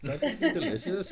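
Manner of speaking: high, laughing mock phone call. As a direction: giggle through the silly question. Imagined prank call to Ireland.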